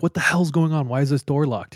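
acted exasperated question; mild irritated demand. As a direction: play a dad annoyed at being locked out. Retold dad demanding at locked door.

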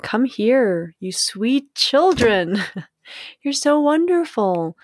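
put-on slow, rising, doting "Come here, you sweet children"; tender. The inner child cooing to all littles, tender. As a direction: coo over them lovingly. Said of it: "wrap all of them in my arms and say".

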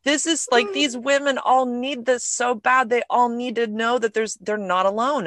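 high, tearful, overwhelmed voice, half laughing; crying with joy. Retold or imitated. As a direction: relive the moment of joyful tears in the kitchen. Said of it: "and just sobbing, like, crying".

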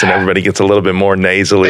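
nasally Chicago demo; Chicago accent. Shown as a demonstration. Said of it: "if I did Chicago, it kinda gets like this".

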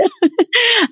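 high laugh. Real, not acted. Laughing at client's quote.

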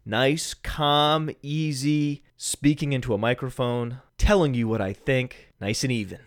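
soft, deliberately calm delivery; gently even, no yelling; calm and easy. Shown as a demonstration. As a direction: show how calm you can be. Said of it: "no yelling".

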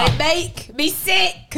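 slow, emphatic declaration of disgust. Real, not acted. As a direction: raise it and spell out each word. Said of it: "Say it louder".

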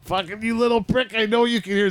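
high mock yell at a player from the bench; a hammed-up furious coach screaming from the bench. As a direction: shriek it like an enraged coach. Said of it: "he'd be like".

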